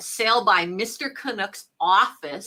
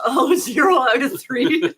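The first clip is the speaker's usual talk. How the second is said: laughing; 9 semitones higher, 4 dB louder, slower than usual. Real, not acted. Host laughs at zero score.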